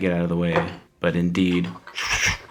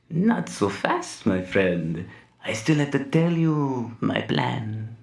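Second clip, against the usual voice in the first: villain monologue; 5 semitones higher, slower than usual. Acted. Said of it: "Evil monologue".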